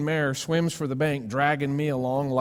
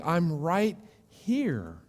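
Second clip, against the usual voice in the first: calm reassurance; 2 semitones higher, much slower than usual. Pretend. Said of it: "God's had to walk over and go".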